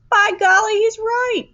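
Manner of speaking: put-on high, loud surprised old voice; an old grandpa bursting out in amazement; delighted old man's exclamation. A narrator's reading.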